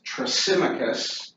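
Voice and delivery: Thrasymachus said as thruh-SIM-uh-kus; pronunciation demo. Shown as a demonstration. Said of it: "His name is".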